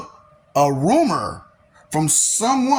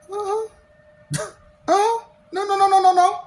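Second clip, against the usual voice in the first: dismissive uh-huh; 13 semitones higher, faster than usual. Acted. Cutting off excuses, high.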